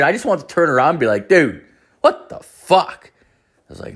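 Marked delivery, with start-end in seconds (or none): 1.3-3.1 high, drawn-out disbelief; incredulous. Retold or imitated. Wanting to turn around to her, incredulous. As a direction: stretch it out, pitched up in disbelief. Imagined confronting the spendthrift wife.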